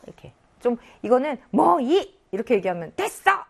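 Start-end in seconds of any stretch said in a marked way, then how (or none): 1.5-2.2 loud, high, abrupt 뭐 이; short, irritated-sounding demo of 뭐 이; brusque refusal. Shown as a demonstration. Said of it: "말투나 억양에 따라 좀 달라지지". 3.0-3.4 high, sharp, dismissive outburst; acted abrupt no-more; brusque refusal. Shown as a demonstration. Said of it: "이렇게 얘기하는 것 같으니까".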